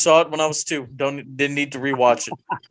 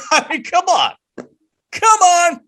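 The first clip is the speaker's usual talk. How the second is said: laughing exasperation; 13 semitones higher, 5 dB louder than usual. Real, not acted.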